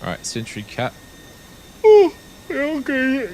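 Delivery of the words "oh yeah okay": surprised. Real, not acted. Startled by something on stream.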